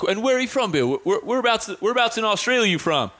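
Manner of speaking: retold American friend. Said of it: "he came back at me, he's like".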